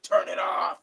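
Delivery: loud, abrupt retold order; mock outrage. Retelling the order to a friend playing a singer's music, mock outrage. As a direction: act out yelling at a friend, hammed-up.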